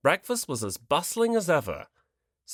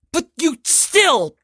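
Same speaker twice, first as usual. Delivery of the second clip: trailing off; 10 dB louder, much slower than usual. Acted. Anger deflates mid-sentence.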